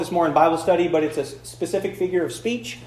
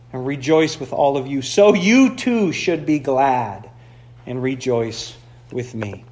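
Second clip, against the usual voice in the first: scripture reading. Acted. Pastor reading Philippians to the church, measured and solemn. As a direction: read the passage with weight.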